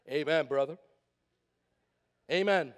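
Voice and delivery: low, drawn churchy amen. Shown as a demonstration. Pastor demonstrating how church folks say amen, low. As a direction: say it like an old church deacon. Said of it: "how we say it in church".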